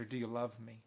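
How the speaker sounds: soft, low, searching question; hushed question from Jesus to Peter; gentle asking. Acted. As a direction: ask it tenderly, dropping the voice. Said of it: "he's gonna ask Peter".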